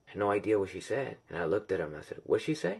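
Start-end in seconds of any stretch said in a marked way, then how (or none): 2.2-2.7 high, rising question; lightly acted bewilderment; puzzled question. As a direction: retell a confused ask, pitched up. Retells asking his friend.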